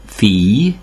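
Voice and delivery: fille with no L, like "fee-y"; French fille, long "ee" gliding to Y; ILL as I. Shown as a demonstration. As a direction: say fille with the double L silent as L. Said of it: "vagy néha I-nek".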